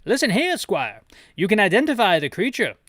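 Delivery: high, loud British officer; a stiff British officer barking orders. Acted. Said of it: "Gotta get my British voice back up".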